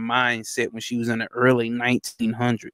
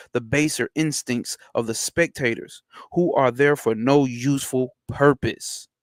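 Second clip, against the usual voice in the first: measured, slightly raised book-reading voice; reading aloud. Acted. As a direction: read the old text deliberately, like a formal lecture. Reads occult book aloud.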